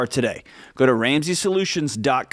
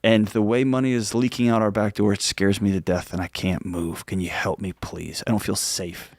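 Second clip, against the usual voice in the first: scared pleading; 4 semitones lower than usual. Pretend. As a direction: ask for help as if frightened, voice sinking lower. Wife pleading with husband about money.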